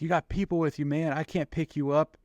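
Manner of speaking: urgent protest. Retold or imitated. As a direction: play the pilot refusing his buddy. Pilot refusing pickup in retelling.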